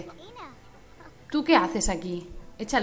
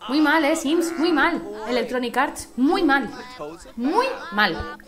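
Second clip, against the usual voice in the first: scolding; 2 semitones higher, 4 dB louder, slower than usual. Real, not acted. Scolding the game company.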